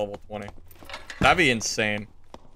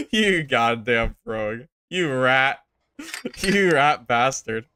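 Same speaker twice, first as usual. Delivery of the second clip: laughing curse; slower than usual. Real, not acted.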